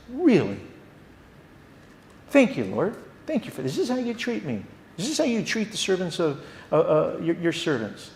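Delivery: a hint of sarcastic, aggrieved whine; sarcastic complaint. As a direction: thank God through gritted sarcasm. Believer sarcastically complaining to God.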